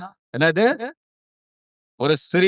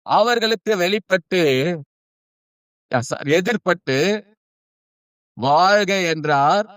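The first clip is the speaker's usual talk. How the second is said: scripture reading; 3 semitones higher than usual. Acted. Reads scripture aloud to congregation. (நிதானமான வேத வாசிப்பு)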